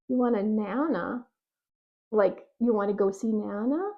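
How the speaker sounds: puzzled questioning "nana?"; playing dumb. Parent playing dumb with a child's "nana". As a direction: pretend not to understand. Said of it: "you can say".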